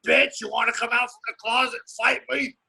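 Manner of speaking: fight-promo trash talk. Shown as a demonstration. Fighter shows the coach he can sell a fight, trash-talking. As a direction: throw down a challenge like a fighter on the mic. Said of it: "I'll just talk like this".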